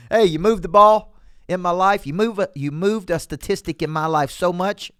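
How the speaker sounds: high, loud gushing praise; mock gushing. Coach playing a customer praising the salesperson, mock gushing. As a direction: gush like an overexcited customer, hammed-up.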